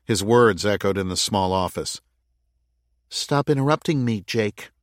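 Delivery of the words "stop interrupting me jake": icy. Acted. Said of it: "in an icy voice".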